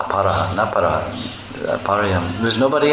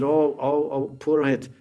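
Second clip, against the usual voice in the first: fawning Jatila; 3 semitones higher, 7 dB quieter than usual. Retold or imitated. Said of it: "Jatila said".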